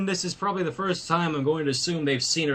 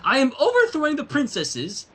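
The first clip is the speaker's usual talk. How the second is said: spat out; 9 semitones higher, 3 dB louder than usual. A narrator's reading. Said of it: "She spat the word out".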